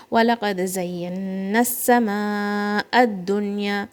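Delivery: fast melodic tajweed recitation; Quran recitation. Shown as a demonstration. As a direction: chant the verse for pupils.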